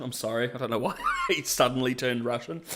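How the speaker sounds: laughing apology. Real, not acted. Laughing at own voice.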